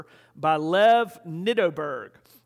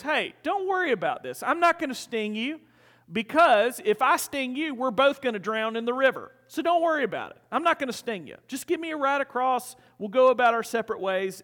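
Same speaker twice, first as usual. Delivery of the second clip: higher, lightly acted coaxing; a casual storyteller's persuasive scorpion; reassuring scorpion; 4 semitones higher than usual. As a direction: brush off the worry, pitched up. Scorpion coaxing the wary frog.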